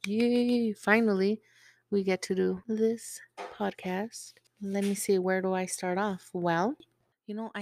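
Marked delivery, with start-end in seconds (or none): 0.1-4.3 loud happy yay to open; excited cheer. Real, not acted. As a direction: cheer it out, finally here. Excited podcast opening.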